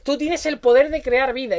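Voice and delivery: lightly imitated comic-book advert; ad slogan. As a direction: recite it like an ad slogan, a touch put on. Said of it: "los anuncios esos que te venden muñecos". (eslogan de anuncio, imitado con ligereza)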